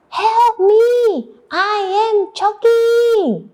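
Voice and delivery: high, drawn-out plea; acted desperate wolf call; cry for help. Shown as a demonstration. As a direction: wail it out for the class to join. Leads class in wolf's plea.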